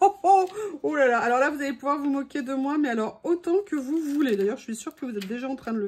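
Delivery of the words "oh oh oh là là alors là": high, quick laughing oh là là; laughing dismay. Real, not acted. Crafter laughing at her own blunder, high and quick. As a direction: laugh it off in surprise.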